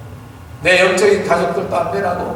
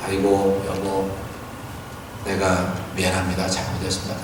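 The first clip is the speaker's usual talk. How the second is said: low, soft, meek apology; husband mumbling a hushed sorry to his wife; sheepish apology; 8 semitones lower, 7 dB quieter than usual. Retold or imitated. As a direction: grovel quietly to an angry wife.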